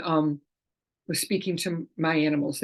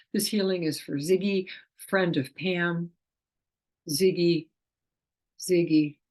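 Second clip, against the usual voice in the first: calling the name; slower than usual. Shown as a demonstration. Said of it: "I'll say the name three times".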